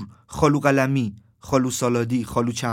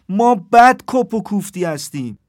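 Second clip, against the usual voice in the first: put-on raised, louder voice of a young man yelling; acted shout; 7 semitones higher, 9 dB louder, slower than usual. Young man with the ball yelling at the rugby team, shouting. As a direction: shout it out with force, higher pitched. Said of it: "داد زد".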